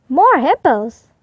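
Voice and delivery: slow, musing; slowly puzzled thought; thinking aloud. Acted. Portly spotting the herd, slow musing. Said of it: "he thought".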